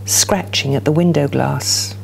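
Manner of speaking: measured, dramatic poem reading; poetry reading. Acted. Poet reading her poem aloud to the audience, measured and dramatic. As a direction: let each image land for the room.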